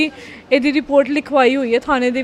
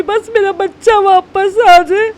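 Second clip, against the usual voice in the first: real tears, higher, louder and slow; tearful plea; 4 semitones higher, 6 dB louder, slower than usual. Real, not acted. Mother pleads for her missing daughter to come home, tearful and slow. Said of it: "ਤੁਸੀਂ ਰੋਵੋ ਨਾ".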